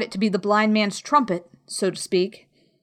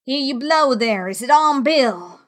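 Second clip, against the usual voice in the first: high, raised shouting question; cried demand; 4 semitones higher, 4 dB louder than usual. A narrator's reading. Blind beggar calling to men below in the inn, high cry. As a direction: call impatiently to men inside. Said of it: "cried the blind man again".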